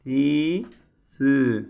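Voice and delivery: "Ti" and "Sü" said with a lisped th, tongue between the teeth; teacher modelling lisped Arabic letters; lisped sounds. Shown as a demonstration. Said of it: "Peltek olmasına dikkat edelim".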